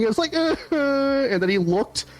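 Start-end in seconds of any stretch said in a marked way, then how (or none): 0.4-1.3 high, whimpering mock sobs; imitated crying. Imitating wife crying over the lost toy, mock whimper. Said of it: "my wife just started crying".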